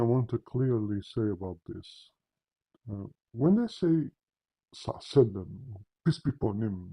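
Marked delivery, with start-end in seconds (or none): 4.7-6.9 careless run-together formula, low and offhand; without respect. Retold or imitated. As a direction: imitate a disrespectful throwaway blessing. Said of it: "they're not even saying it in respect".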